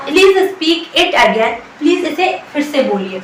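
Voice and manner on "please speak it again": very slow and deliberate; slow teaching demo. Shown as a demonstration. Teacher repeating the phrase slowly for students. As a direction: say it slowly for learners. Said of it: "इसकी English क्या होगी?".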